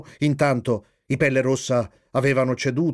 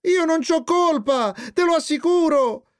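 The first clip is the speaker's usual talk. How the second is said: put-on high, wailing child's plea; sobbing; 14 semitones higher than usual. A narrator's reading. Jeep swearing innocence to mother, acted sobbing. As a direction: plead high, as if in tears. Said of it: "spiegò Jeep singhiozzando".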